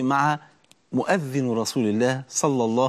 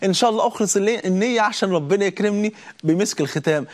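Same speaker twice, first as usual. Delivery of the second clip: hopeful prayer; 5 semitones higher than usual. Pretend. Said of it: "وانت بتصلي التراويح تقول".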